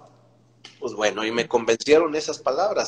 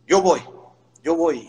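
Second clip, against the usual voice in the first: louder, higher "I'm going"; eager challenge; 6 semitones higher, 4 dB louder than usual. Retold or imitated. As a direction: jump at the challenge. Pilar acepta el reto. (Pilar acepta el reto, fuerte y agudo)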